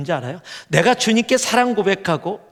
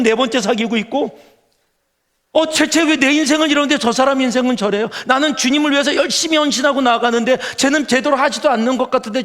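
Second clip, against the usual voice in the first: high, louder whiny grumbling; jealous believer's complaint; 7 semitones higher, 4 dB louder than usual. Retold or imitated. Believer to God, jealously whining about a friend. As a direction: gripe to God about someone else's luck. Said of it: "다른 사람 봐".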